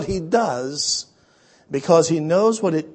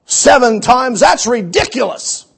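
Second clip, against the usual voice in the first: loud, quick scornful protest, then dropping off; Naaman scoffing; 3 dB louder than usual. Retold or imitated. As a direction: play Naaman refusing the river as absurd. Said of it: "And Naaman could say".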